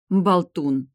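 huffed retort; huffy snort. A narrator's reading. Vampiress huffs at teasing boyfriend, loud snorted word. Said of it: "фыркнула вампиресса".

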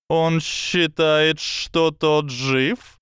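high, slow hissing snake voice; slow hypnotic serpent hiss. Acted. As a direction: let the serpent drag each word. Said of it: "наконец отозвалась змея".

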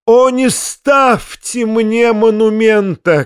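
high, drawn-out dramatic cry; histrionic, stretched plea. A narrator's reading. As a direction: wail it slowly, pitched high. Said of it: "кричал Фома".

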